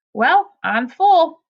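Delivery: slow, high, loud announcement; sudden exclamation. A narrator's reading. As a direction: blurt it out abruptly. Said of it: "he exclaimed suddenly".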